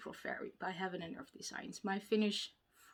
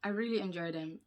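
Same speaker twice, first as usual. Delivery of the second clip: slowed down; faster than usual. Real, not acted. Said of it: "Let's slow down".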